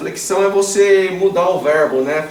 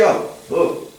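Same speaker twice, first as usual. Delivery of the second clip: ordinary talk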